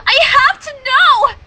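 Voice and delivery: desperate outcry. Acted. Reader voices Twilight's need, loud and slow. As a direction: burst out slowly, unable to hold back. Twilight's outburst read aloud.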